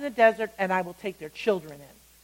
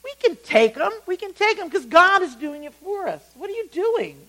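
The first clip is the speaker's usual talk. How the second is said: incredulous, high and loud rebuttal; acted exasperated confidence, pitched up; confident dissenters; 9 semitones higher, 5 dB louder than usual. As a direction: protest in disbelief, urging them on. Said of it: "and the other two said".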